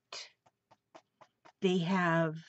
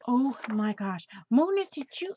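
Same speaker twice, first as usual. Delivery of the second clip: excited squeal; 6 semitones higher, 5 dB louder than usual. Real, not acted. Thanking her friend Mona for the frog gifts, excited high squeal. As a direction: pitch leaps high with delight, a bit louder.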